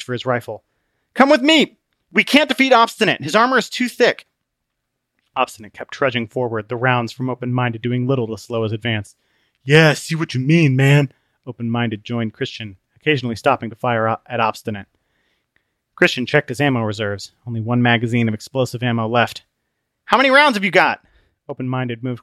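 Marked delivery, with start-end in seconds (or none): 1.1-4.3 high loud plea; urgent shout. Acted. Christian shouting to Open-Minded in battle. 9.6-11.1 loud relaxed dude voice; Open-Minded, laid-back surfer. Acted. Open-Minded covering Christian, laid-back. 20.1-21.0 high loud plea; urgent shout. Acted. Christian shouting to Open-Minded in battle.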